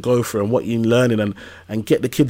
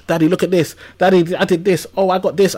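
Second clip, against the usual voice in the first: lightly voiced eager kids, pitched higher; a hint of small children all clamouring for Dad; excited kids; 6 semitones higher than usual. Kids crowding round Dad after school, excited high voices.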